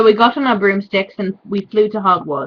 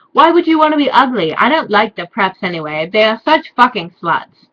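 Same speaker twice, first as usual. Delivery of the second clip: mock Draco; 2 semitones higher, 5 dB louder than usual. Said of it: "answered Draco".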